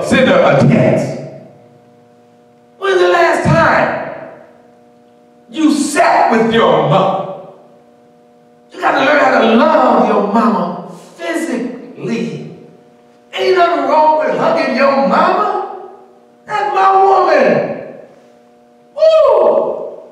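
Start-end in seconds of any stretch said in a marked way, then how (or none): 2.8-7.5 preaching shout. Real, not acted. Preacher's rising challenge. 18.9-20.0 high woo. Real, not acted. Preacher's exclamation.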